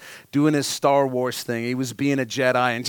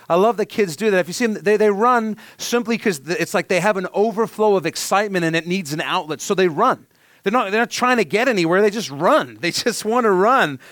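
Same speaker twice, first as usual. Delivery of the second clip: delighted, higher and brighter; excited; 5 semitones higher than usual. Real, not acted. Preacher gushes to congregation about his kids, excited.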